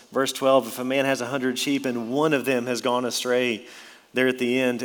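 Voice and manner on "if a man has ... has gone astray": "one" picked out with emphasis; stress on one. Shown as a demonstration. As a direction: put the weight on "one". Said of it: "Notice the emphasis on that word one".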